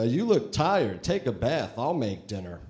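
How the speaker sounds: like a cheesy talking doll. Pretend. Doll voice saying husband lines.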